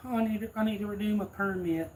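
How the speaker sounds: high-pitched elderly woman impression; mimicking a little old lady's request; frail old lady. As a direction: imitate a frail old customer, voice lifted high. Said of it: "frail looking old lady".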